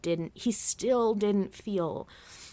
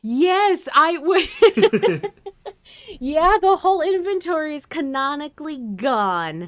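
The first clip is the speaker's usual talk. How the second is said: talking through laughter, higher; giggling while answering; laughing; 9 semitones higher, 10 dB louder than usual. Real, not acted. Laughing about missing inventory.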